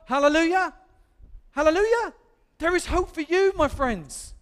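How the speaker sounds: high, loud hallelujah call; exultant preaching. Real, not acted. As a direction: proclaim it joyfully, high and loud. Preacher exclaiming hope to congregation.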